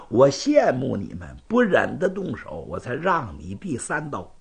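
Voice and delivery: conciliatory, reasoning rival; patient swordsman. Acted. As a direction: explain your restraint point by point. Zhan explains his restraint.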